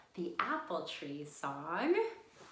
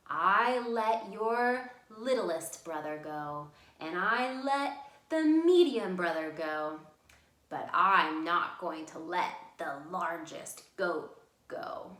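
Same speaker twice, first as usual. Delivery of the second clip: threatening troll; 8 dB louder than usual. Acted. Troll refusing to let the biggest goat pass, loud and slow. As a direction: drag it out like a troll who won't budge. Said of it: "And the cave troll said".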